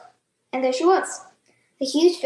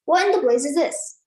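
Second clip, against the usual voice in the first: mild yell. Acted. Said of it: "yelled the Trunchbull".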